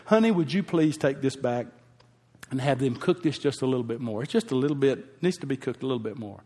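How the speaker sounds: a gentle, courteous ask; polite request. Retold or imitated. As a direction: sweetly ask the waiter for a favour. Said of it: "There's a good way to do that".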